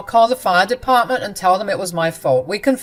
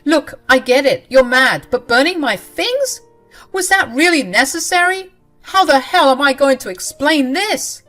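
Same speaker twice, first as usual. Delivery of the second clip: higher and louder, outraged demands; angry shouting; 8 semitones higher, 9 dB louder than usual. Acted. Husband shouts at his wife over his burned things, outraged yelling. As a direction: rant at her, voice raised high throughout. Husband rages at burnt belongings.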